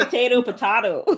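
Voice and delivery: "Potato, potato" as po-TAY-to, po-TAH-to, laughing; contrasting pronunciations. Shown as a demonstration. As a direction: switch the vowel on the second "potato" from AY to AH. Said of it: "how they pronounce some stuff".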